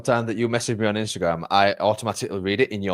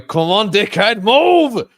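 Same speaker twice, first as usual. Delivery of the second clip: loud, high imitated yell; mock shout to shift someone; hurrying someone along; 14 semitones higher, 11 dB louder, slower than usual. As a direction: yell it impatiently, pitched way up. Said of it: "stood at the side of me going".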